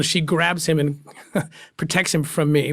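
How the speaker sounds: slow, with a tender laugh. Real, not acted. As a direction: laugh through it fondly. Tender memory, laugh heard.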